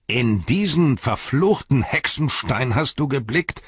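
high, loud alarmed outcry; cried out. A narrator's reading. Gimli cries out in alarm to Aragorn. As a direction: Gimli horrified at the cursed stone. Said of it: "rief Gimli".

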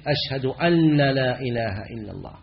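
"أنّ" said with a doubled, held n in "أشهد أن لا إله إلا الله"; doubled nun in an. Shown as a demonstration. Teacher demonstrating the error of stressing "أن" in the shahada. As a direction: lean on the n of "أن" as if doubled. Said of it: "بعضهم يشدد".

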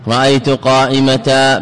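قائمة said slowly as qaimata; قائمة with the ta and a long a; pausal alif ending. Shown as a demonstration. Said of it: "بإبدال التنوين ألفا".

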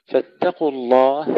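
فاتقوا with thin T then thick Q; light ta heavy qaf. Shown as a demonstration. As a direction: contrast T and Q in فاتقوا. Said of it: "ترقيق التاء قبل تفخيم القاف". (ترقيق التاء وتفخيم القاف)

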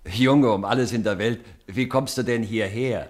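loud, amazed and delighted; father loudly greets his surprise-arrived son; astonished question. Acted. Father sees son arrive unexpectedly.

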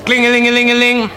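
high, quick sing-song phone ring; mimicked telephone bell. Imitated phone ringing.

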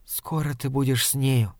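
soft hurried whisper. Acted. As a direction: whisper it quickly. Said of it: "торопливо шепнула она". (торопливым шёпотом)

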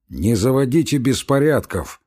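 instructive guard, mildly voiced; a hint of a stern warder lecturing. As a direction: set him straight like a warder. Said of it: "сказал наставительно Никита".

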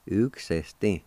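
"uksesti" said as one joined word; whole-word pronunciation. Shown as a demonstration. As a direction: model "uksesti" for learners, no breaks. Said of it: "now pronounce these words one more time".

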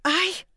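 sudden high yelp of pain; sharp cry of pain. Acted. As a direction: cry out as a cramp hits. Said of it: "издав тихий вскрик".

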